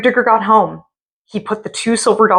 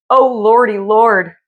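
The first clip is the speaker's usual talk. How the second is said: higher trembling plea; frightened cry; 3 semitones higher, slower than usual. Acted. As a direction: whimper in terror. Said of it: "shivered and shook and cried".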